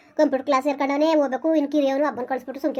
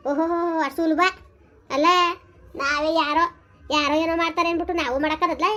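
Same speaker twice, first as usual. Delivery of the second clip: scolding; 2 semitones higher than usual. Acted. Mother berates son about the missing wife and loan, angrily. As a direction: tear into him over the debt.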